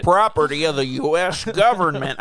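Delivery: put-on authority-figure voice; mock general's voice. Imitating the general claiming the runaway Hulk, mock-commanding. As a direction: bark it like a hammed-up general. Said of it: "I don't know what the voice I'm doing is".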